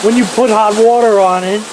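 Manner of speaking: high, excited mock Russian accent; hammed-up Russian-accented awe. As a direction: gush like an amazed Russian video host, Russian accent. Reprises the Russian host impression.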